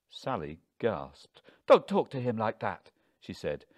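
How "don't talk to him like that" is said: loud, affronted reprimand; indignant telling-off; shocked scolding. A narrator's reading. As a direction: scold your husband loudly. Wife scolds husband.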